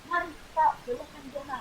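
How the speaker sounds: high, fired-up presenter voice; rousing high call to the audience; spirited high tone. Shown as a demonstration. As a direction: sound fired up and burning with energy. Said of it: "Nah, itu kan kayak semangat mau, membara".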